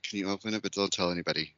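soft, confidential aside; imitated whisper. Host imitating the comedian asking for secret help, hushed. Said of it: "like, whispering to him".

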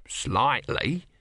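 hesitant, hedging answer; cautious understatement with a rising end; reluctant admission. Acted. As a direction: own up to it reluctantly.

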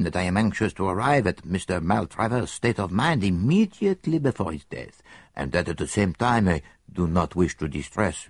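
lightly voiced Belgian detective; a hint of a fussy foreign sleuth; Poirot. Detective tells his friend where they will stay, lightly voiced.

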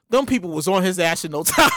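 low, laughing delivery. Real, not acted. Host cracking up at how fast police came, laughing. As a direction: tell it while breaking into laughter.

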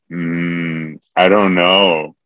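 drawn-out coy "I don't know", pitch dipping; coy, trying to be cute. Retold or imitated. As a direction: play it cute and hard to get. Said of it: "trying to be cute".

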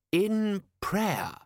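high, sharp retort. A narrator's reading. Lord Rust corrects Vimes, high and sharp. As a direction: cut him off sharply. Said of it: "said Rust, sharply".

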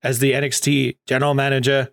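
lightly put-on posh British announcer; a hint of posh accent, building to the name; Regal's posh accent. Imitating Regal introducing his replacement, mock posh accent. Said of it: "Regal has more of a posh accent".

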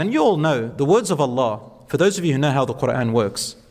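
normal talking voice

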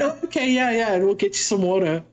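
imitated American server's relieved reply; American accent. Server finally understands the water order, American accent. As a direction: play an American waiter catching on. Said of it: "you do a great American accent".

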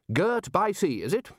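Ridcully pretending to understand; bluff, amused query; blustering Archchancellor. A narrator's reading. Ridcully voiced.

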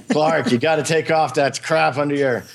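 pushy New Jersey scolding, done badly on purpose; a bad New Jersey accent telling a friend to fix his site. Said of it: "that was a pretty bad New Jersey accent".

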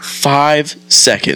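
stunned drawn-out echo; incredulous. Retold or imitated. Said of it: "And I was like".

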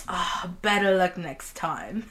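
low, slow, soft mock Australian; badly faked Australian accent. Imitating streamers for co-host, bad Australian accent. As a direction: attempt an unconvincing Australian accent. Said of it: "supposed to be Australian".

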